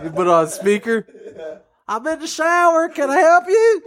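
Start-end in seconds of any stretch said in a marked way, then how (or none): 1.9-3.8 higher voice calling out; God in the shower. Acted. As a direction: call it high over running water.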